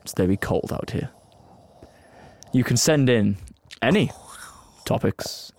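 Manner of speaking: serious reading voice. Shown as a demonstration. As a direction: read the promo like a solemn movie trailer. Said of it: "serious reading voice".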